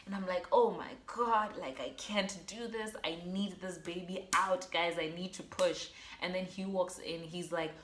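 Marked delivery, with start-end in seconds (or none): 0.5-5.9 retold scream. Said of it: "screaming on my side".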